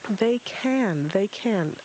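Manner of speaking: high exasperated screech; Owl screeching. Acted. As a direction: screech it out in frustration. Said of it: "Owl screeched".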